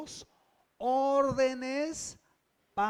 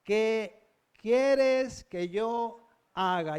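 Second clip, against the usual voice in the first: pregunta solemne; 3 dB louder, much slower than usual. Retold or imitated. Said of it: "Vea lo que le pregunta".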